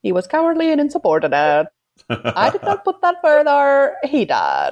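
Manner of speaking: lightly put-on sea-captain accent of the film's commander; mock captain's accent, swinging high then dropping; Bly's accent. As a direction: imitate the captain's accent, drawing words out. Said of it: "I did like Bly's accent".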